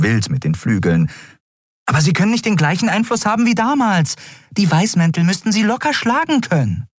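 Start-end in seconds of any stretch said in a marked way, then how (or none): 1.9-6.9 hoch, schnell, besorgt fragend; Nelen, unruhig. A narrator's reading. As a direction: eine kleine geflügelte Gestalt in Sorge. Nelen aufgeregt. (Nelen fragt unruhig, viel höher)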